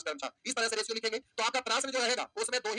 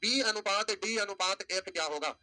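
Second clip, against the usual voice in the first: slow dictation; slower than usual. Shown as a demonstration. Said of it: "अब आपसे कहेगा कि".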